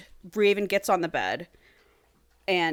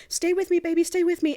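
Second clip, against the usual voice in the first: mock pleading; 10 semitones higher than usual. Raven pleading with dying Clint.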